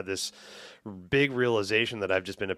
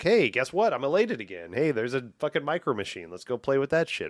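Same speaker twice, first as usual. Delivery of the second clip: imitating excited toddler; 5 semitones higher, 3 dB louder than usual. Toddler's gleeful inner voice.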